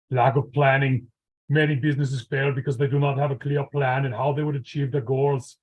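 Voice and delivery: Terminator robot accent, lightly done; a hint of movie cyborg; Schwarzenegger Terminator voice. Shown as a demonstration. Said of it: "let's see how my, um, Schwarzenegger slash Terminator is".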